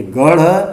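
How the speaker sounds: गढ़ slowly, with flicked aspirated ṛh; careful flap model. Shown as a demonstration. Teacher recapping the list, गढ़ slowly with flapped ṛh. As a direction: say गढ़ as gaṛh, rising at the end. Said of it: "इसे पढ़ेंगे".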